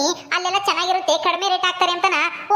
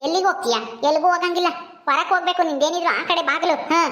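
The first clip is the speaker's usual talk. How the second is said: a lightly lowered voice for a harsh mother-in-law, ordering the bride out; scolding mother-in-law; 3 semitones lower than usual. Acted. Mother-in-law orders her son's wife to leave, stern and dismissive. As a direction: play the bossy mother-in-law in a slightly deeper voice, curt and cold.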